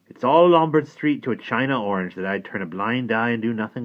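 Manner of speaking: a hint of a shrewd old man; lightly voiced old workman. A narrator's reading. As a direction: talk like a knowing old craftsman. Mister Cobb speaks.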